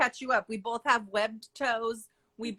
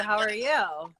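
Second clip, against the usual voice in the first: whispering; slower than usual. Real, not acted. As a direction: whisper it back to her. Whispered question back to friend.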